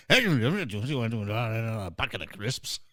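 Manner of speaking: slow, soft imitation of a Glaswegian accent. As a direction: drawl it out in a mock Glaswegian accent. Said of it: "the Glaswegian accent".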